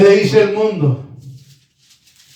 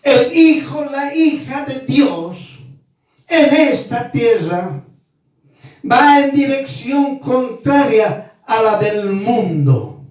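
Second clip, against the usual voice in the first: higher, slow, deliberate restatement; slower emphatic repeat; 4 semitones higher than usual. Shown as a demonstration. Preacher repeating the point slowly so the congregation understands. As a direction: spell it out slowly so they get it. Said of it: "entiéndalo".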